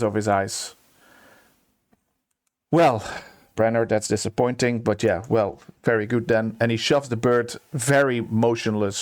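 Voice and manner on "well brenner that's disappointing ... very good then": suddenly matter-of-fact, tears gone; unmoved, businesslike acted tone; straight-faced composure. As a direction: brush off the loss briskly and evenly. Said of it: "face straight, wipes the tears".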